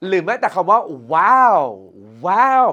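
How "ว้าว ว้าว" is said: drawn-out, louder wow of surprise; demo amazement. Shown as a demonstration. Teacher demonstrating an interjection of surprise, amazed. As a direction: exclaim as if pleasantly amazed. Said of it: "คือบอกความป".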